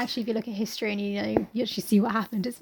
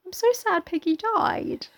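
high, drawn-out pretend grief; mock upset; 12 semitones higher, 4 dB louder, slower than usual. Co-host lamenting Piggy's death, mock upset. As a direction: wail slowly, hamming up the hurt.

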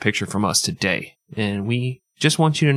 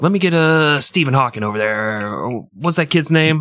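put-on kid picking teams; 4 semitones higher than usual. Germany as a kid choosing dodgeball teams, hammed-up eager calling. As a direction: shout picks across the playground. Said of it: "Germany's like".

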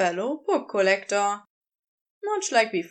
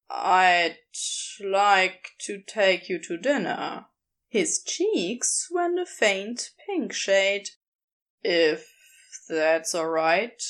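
a bit lower, easygoing drawl; casual, a touch sly; lightly voiced Crowley; 4 semitones lower, slower than usual.

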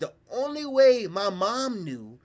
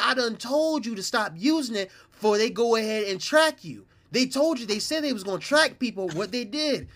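high, louder mock scolding; scolding brother; 6 semitones higher, 4 dB louder than usual. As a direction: lecture him like a fed-up brother. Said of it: "he said".

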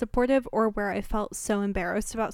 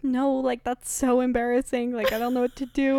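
higher, louder, fast flustered refusal; embarrassed panic; 3 semitones higher, 6 dB louder than usual. Retold or imitated. Evelyn refuses the hospital, flustered and panicked. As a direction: brush it off in a fluster.

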